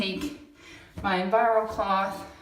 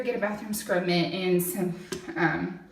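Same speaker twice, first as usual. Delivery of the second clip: out of breath. Real, not acted. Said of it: "Sorry, I'm out of breath".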